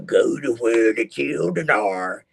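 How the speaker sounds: slow, eerie voice from the skull. Retold or imitated. The voice of the skull urging him on, slow and eerie. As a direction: intone it like a sinister command. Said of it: "the voice of the skull".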